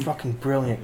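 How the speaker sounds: soft, savoring quote; a hint of the British chef; chef catchphrase. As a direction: praise it quietly like a TV chef. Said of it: "I love that line".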